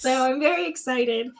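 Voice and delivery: tongue-back voice. Real, not acted. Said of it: "like I've swallowed an entire frog".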